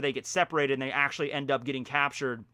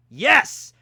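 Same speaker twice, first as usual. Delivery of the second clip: loud, higher shout of victory; a quick yell of triumph; triumphant yes; 8 semitones higher, 12 dB louder than usual. Real, not acted. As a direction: cheer it out when you get it right. Got the quiz answer right.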